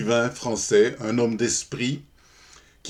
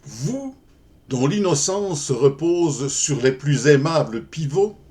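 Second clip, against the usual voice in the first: poem recitation. Acted. Reader addressing an innocent beloved in verse, poem recitation. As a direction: recite as the opening line of a love poem.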